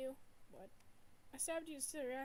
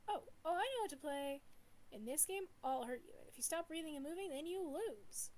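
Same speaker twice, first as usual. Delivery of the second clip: put-on a playful child who means to kill; sinister child spirit; 4 semitones higher, 6 dB louder than usual. Spirit gleefully explains its deadly game to Red, loud and high.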